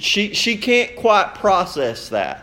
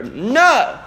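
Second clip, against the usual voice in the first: high, sudden little cry of "no"; sharp rise and fall, like a dreaming child; imitated sleeping toddler; 8 semitones higher, 4 dB louder than usual. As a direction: mimic a child blurting out in a dream. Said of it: "in the middle of the night she grunts".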